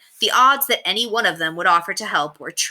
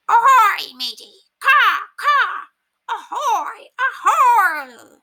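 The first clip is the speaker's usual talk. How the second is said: high, loud squawky parrot voice; squawking parrot; 6 dB louder, much slower than usual. A narrator's reading. Parrot pretending to be pirate's parrot.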